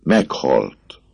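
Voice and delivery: a mild cried-out Meghalt. Acted. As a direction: blurt Meghalt as a half-shout. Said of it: "kiáltotta a pap".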